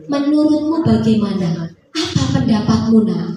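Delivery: gentle father. Retold or imitated. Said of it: "Nabi Ibrahim mendatangi putranya".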